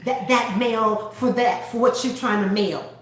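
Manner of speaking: curtly spaced-out words; short, curt clerk. Retold or imitated. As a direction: imitate an unhelpful clerk laying down the rule. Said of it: "Very short".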